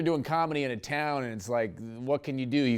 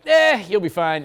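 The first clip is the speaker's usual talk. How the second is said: loud, higher folksy musher; mock backwoods musher; gruff musher; 4 semitones higher, 7 dB louder than usual. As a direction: call out like an Alaskan dog man. Musher voiced in story.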